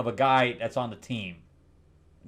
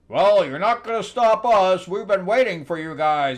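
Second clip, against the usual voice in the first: raised, louder villain taunt; 7 semitones higher, 7 dB louder than usual. Retold or imitated. Henchmen taunting the heroes in a raised, louder voice. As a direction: sneer it like cocky henchmen. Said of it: "So they're like".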